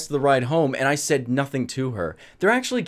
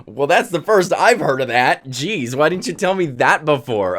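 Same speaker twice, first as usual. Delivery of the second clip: mock exasperation; 5 dB louder than usual. Retold retort to date complaint.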